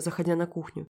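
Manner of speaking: plain reading voice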